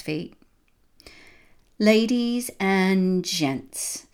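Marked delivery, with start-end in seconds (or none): 1.8-4.1 theatrical villain. A narrator's reading.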